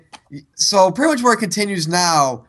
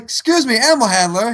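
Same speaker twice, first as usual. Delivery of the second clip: higher-pitched indignant summons; raised, put-on questioning voice; acted character quote; 5 semitones higher than usual. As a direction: imitate a show character calling for attention. Voicing Richard at the fair.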